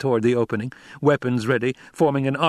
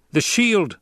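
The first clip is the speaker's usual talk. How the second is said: alarmed shout; 9 semitones higher, 3 dB louder than usual. Acted. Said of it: "officers shouted".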